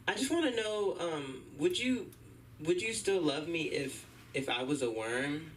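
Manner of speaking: slow, high, timid question; girlfriend asking. Retold or imitated. Girlfriend timidly asks if he'd love her as a worm. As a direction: draw it out sweetly. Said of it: "girlfriend asking".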